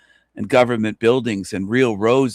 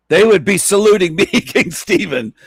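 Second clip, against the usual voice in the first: cheeky; 8 semitones higher, 5 dB louder than usual. Pretend. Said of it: "I'm being a bit cheeky here".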